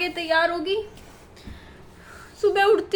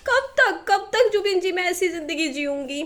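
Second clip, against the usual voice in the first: tearful plea. Real, not acted. Venting to Zubin about endless chores, on the edge of tears. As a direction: cry out how long can this go on. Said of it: "मेरा रोने का मन कर रहा है".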